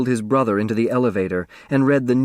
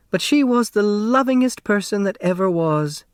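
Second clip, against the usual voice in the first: put-on raised, fond older woman's voice; elderly neighbor voice; 10 semitones higher than usual. A narrator's reading. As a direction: voice the chatty old neighbor, higher. Flora praising her daughter.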